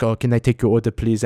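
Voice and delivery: lightly imitated French accent; imitowany francuski akcent. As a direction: play a waitress with a hint of a French accent. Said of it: "she had this French accent".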